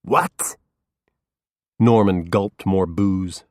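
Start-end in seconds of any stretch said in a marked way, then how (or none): 0.0-0.6 startled whisper. A narrator's reading. Startled reaction.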